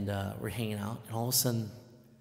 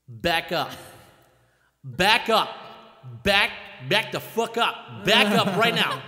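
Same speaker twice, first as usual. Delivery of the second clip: retold warning yell; 3 semitones higher, 5 dB louder, slower than usual. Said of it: "I'm like".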